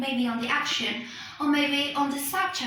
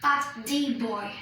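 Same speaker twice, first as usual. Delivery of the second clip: the said as a strong thee; but THEE boy; stress on THE; 3 semitones lower than usual. Shown as a demonstration. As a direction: make the in but the boy carry the weight. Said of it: "it's not an ordinary boy or anyone".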